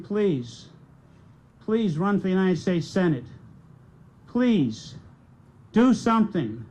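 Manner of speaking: rallying plea in short, separated phrases; retold plea. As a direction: voice the supporters' appeal as an orator, voice unbroken. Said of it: "their voices cracking".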